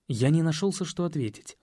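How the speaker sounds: plain reading voice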